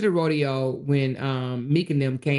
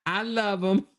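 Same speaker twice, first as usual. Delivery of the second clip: sheepish laughing retraction; slower than usual. Retold or imitated. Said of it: "to say".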